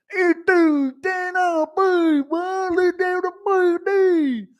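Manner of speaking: extremely high, drawn-out garbled voice; Justin Gaethje. Acted. Fighter answering at a press conference, squealed mock trash talk. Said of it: "Gaethje versus Hooker press conference trash talk impression".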